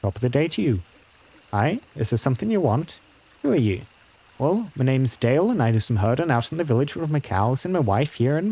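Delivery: lightly voiced country herder; a hint of a plain-spoken farmhand; rustic herder. Herder telling a stranger of vanished neighbours, lightly rustic and grave.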